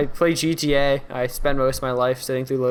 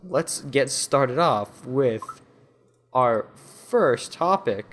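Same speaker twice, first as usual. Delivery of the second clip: news anchor voice; much slower than usual. Real, not acted. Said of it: "You sound like a news anchor".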